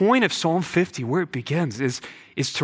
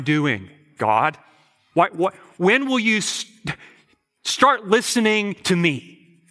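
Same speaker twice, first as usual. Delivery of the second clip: mock grumbler. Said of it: "we say to the Lord".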